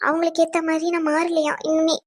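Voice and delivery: confiding through tears; tearful. Acted. Wife telling her friend about being found wanting, tearful. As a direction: protest your innocence while crying. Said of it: "ஏன் இப்படி அழுதுகிட்டே இருக்க?".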